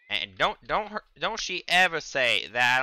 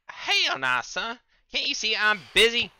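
pitched way up and much louder; shrill outraged yell; 11 semitones higher, 7 dB louder than usual. Real, not acted. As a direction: blow up in outrage at the mob. Fighting a mob, exaggerated.

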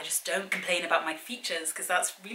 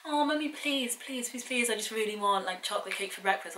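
begging daughter; 4 semitones higher than usual. Retold or imitated. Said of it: "She was like".

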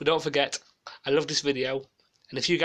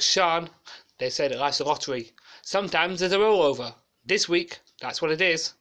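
Leslie Grantham impression; 3 semitones higher than usual. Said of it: "doing a copycat of Leslie Grantham on Fort Bayard".

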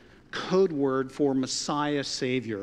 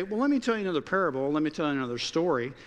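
mock rattling on; faster than usual. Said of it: "Jesus doesn't say".

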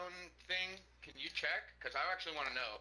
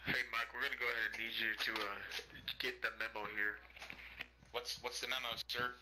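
smarmy boss voice; 5 semitones lower than usual. Pretend. Mock boss giving orders.

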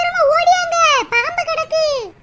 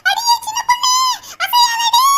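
urgent warning; 6 semitones higher than usual. Acted. Urgent warning about snake.

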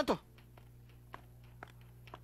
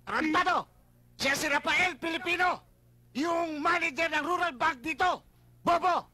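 angry berating; 3 semitones higher than usual. Acted. Chief berating his officer.

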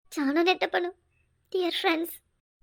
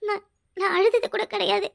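voice breaking. Acted. Confession breaking into tears.

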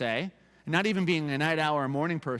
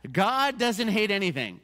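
higher-pitched, lightly mimicked protest; mock objector; 5 semitones higher, 4 dB louder than usual. Pastor echoes people unsettled by the verse, mild mock protest. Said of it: "And they might say".

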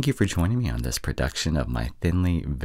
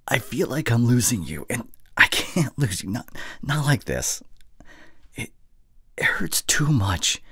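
higher-pitched, pleading heartbreak; acted desperate hurt; anguished plea; 5 semitones higher than usual. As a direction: plead as if losing the love of your life. Acted plea not to lose her.

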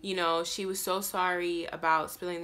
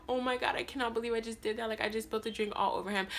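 crying; 3 semitones higher, 5 dB quieter, much faster than usual. Retold or imitated. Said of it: "I start crying".

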